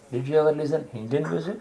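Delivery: "you" stressed, the question rising at the end; whole question with weight on "you" and a final rise; stress demonstration. Shown as a demonstration. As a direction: lean on "you", then lift to the end of the question. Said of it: "stress on every word gives a different attitude".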